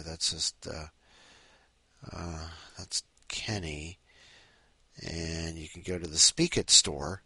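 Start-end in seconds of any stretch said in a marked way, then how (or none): 0.0-4.0 low breathy whispered aside. Real, not acted. Host whispers an aside while browsing the app voices, whispering. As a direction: drop to a whisper, slowly.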